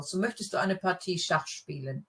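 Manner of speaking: Partie with stress on the second syllable, tie; model German sentence. Shown as a demonstration. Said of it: "the emphasis is more on the second syllable".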